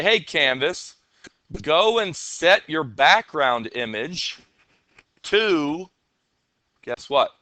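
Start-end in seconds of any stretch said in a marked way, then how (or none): 0.0-5.9 slow, deliberate instruction to the canvas; slow command to the canvas. Shown as a demonstration. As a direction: dictate slowly to the canvas. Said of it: "And I'm gonna say".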